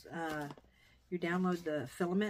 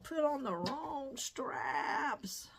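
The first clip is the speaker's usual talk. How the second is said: put-on a sudden loud yelp of girl, then a very slow, drawn-out scold; scolding herself; 8 semitones higher, 12 dB louder, much slower than usual. To herself, finishing the bag with the wrong straps, in a loud self-scold. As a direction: call herself out, then drag the words out. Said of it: "I'm like".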